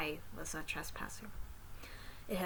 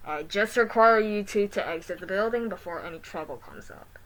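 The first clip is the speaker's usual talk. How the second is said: robot voice; 9 dB louder than usual. Acted. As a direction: speak like a mall security robot. Robot voice continues.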